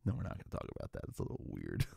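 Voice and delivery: hushed whisper, taking it back; whispered aside. Acted. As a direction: drop to a whisper as a quick aside. Takes back a joke as aside.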